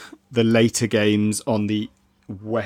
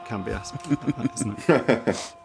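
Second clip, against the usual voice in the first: put-on Geordie accent; 4 dB quieter, slower than usual. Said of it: "Good in a Geordie accent".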